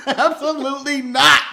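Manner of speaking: slow, laughing "Absolutely not."; laughing denial. Retold or imitated.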